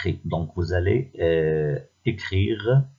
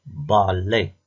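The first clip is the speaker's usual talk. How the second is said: "balai" in two separate beats, ba-lai; measured "balai", each syllable held; split into syllables. Shown as a demonstration. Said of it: "puis écris le nombre de syllabes".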